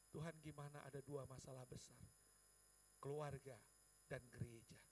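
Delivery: tearful prayer. Retold or imitated. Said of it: "saya sedang menangis".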